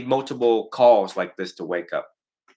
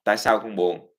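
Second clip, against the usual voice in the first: mẹ hỏi con dịu dàng; gentle caring parent; 4 semitones lower, faster than usual. Retold or imitated. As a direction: invite the child to sit and talk. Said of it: "it is the parents' job to find out".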